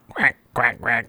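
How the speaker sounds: quiet duck quacks, three in a row. Shown as a demonstration. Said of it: "give me a duck quack that goes want want".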